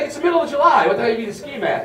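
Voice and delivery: a clerk who can't believe the question; incredulous clerk. Retold or imitated. Walmart clerk questioning him.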